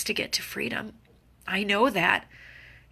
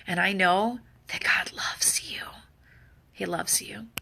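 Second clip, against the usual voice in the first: soft assurance; 3 dB quieter than usual. Real, not acted. Soft faith affirmation.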